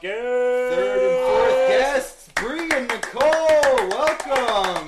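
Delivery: high loud slow guest intro; announcer voice. Pretend. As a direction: welcome them like a game show host.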